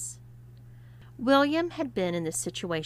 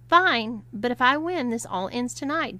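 demanding; 5 semitones higher, 6 dB louder than usual. Acted. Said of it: "demanded William".

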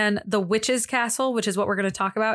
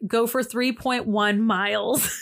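robotic directions; slower than usual. Retold or imitated. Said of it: "it would tell you exact amounts".

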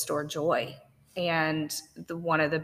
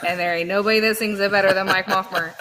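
excited praise; 3 semitones higher, 8 dB louder, faster than usual. Retold or imitated. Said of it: "I said".

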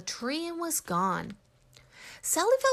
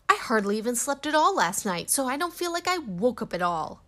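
cranky; 3 semitones higher, 3 dB louder than usual. Acted. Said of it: "said Sally in a cranky voice".

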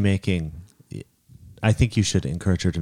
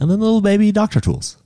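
put-on baby talk voice; 13 semitones higher than usual. Joking about baby toys.

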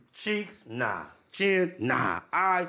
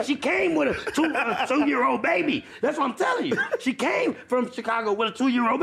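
shouting; 6 semitones higher than usual. Real, not acted. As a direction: shout it to be heard. Insisting over the others.

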